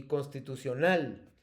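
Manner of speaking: "constitucional" with the last syllable NAL stressed and falling; "constitucional" said slowly as constitucioNÁL. Shown as a demonstration. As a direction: run up to a strong NAL in "constitucional". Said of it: "te las voy a pronunciar todas con el acento fuerte".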